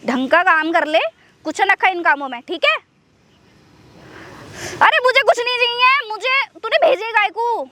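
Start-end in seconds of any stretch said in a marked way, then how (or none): 4.8-7.7 high, indignant complaint; exasperated protest. Acted. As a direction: push back, fed up and pitched high. Protests being sent along.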